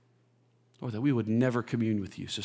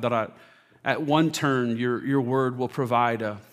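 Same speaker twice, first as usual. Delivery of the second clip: measured prayer with long pauses; public prayer. Real, not acted. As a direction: lead the congregation in sincere prayer. Leads congregation in prayer.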